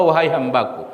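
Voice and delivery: low, tender address; gentle, loving. Retold or imitated. Allah addresses His servant, gentle and loving. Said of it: "kata-kata yang sangat lembut dan penuh kasih sayang".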